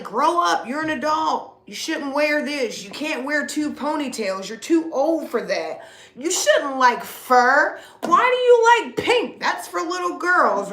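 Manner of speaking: a mild scolding imitation; mock scolding critics. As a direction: mimic the people telling her to act her age. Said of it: "I know they're like".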